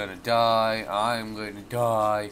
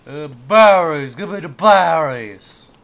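greedy demand; 3 semitones higher, 11 dB louder than usual. Acted.

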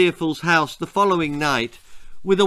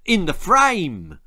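exclaiming; 4 semitones higher, 4 dB louder, slower than usual. Acted. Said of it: "exclaimed Fedora".

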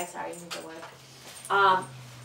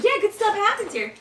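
voicing the dog; 12 semitones higher, 4 dB louder than usual. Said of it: "He's like".

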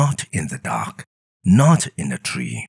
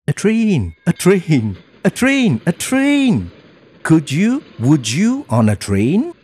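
much higher, bouncing with excitement; excited Sam voice; 12 semitones higher than usual. Acted. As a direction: announce the train like a thrilled kid. Sam excited about train.

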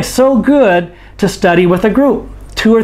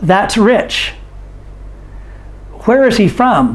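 teacher drill model; 4 dB quieter than usual. Shown as a demonstration. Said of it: "You say them after me".

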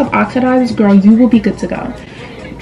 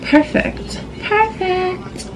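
soft whisper; 10 semitones higher, 9 dB quieter, much slower than usual. Real, not acted. Quiet self-praise while applying makeup.

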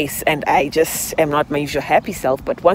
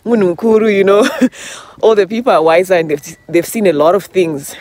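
cheerful inner voice; 5 dB louder than usual. Retold or imitated. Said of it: "'cause I was".

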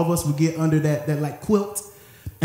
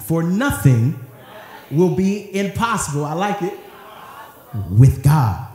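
more excitement. Shown as a demonstration. Preacher modeling the line with more excitement for the congregation. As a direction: sell it, with excitement. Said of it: "say it with a little more excitement".

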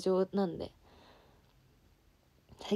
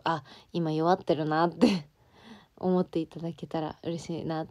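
laughing. Real, not acted.

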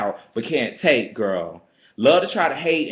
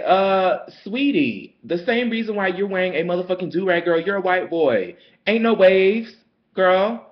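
sassy comeback; 5 semitones higher than usual. Retold or imitated. Clapping back at the white girl, high and sassy. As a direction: read her with sweet poison. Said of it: "And I'm like".

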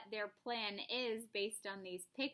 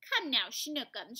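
a touch of a loving coo; 5 dB louder than usual. Acted. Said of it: "she cooed".

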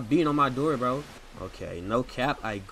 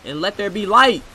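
booming proclamation, pitched up; grand command; 7 semitones higher, 11 dB louder than usual. Acted. Gamer proclaims light to the room, booming. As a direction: declare it like a god.

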